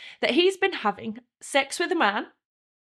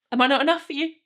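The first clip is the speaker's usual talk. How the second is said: raised, wounded demand; angry demand; 3 semitones higher, 5 dB louder than usual. Acted. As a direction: demand an answer, louder on the name. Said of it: "as I'm demanding at him".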